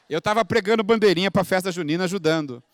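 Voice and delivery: ordinary talk, nothing marked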